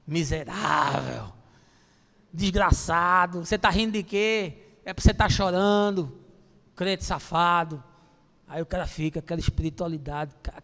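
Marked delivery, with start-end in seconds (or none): 0.1-7.8 mock angry old god. Grumpy God voice insulting a laughing believer. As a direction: ham up a cranky old man berating.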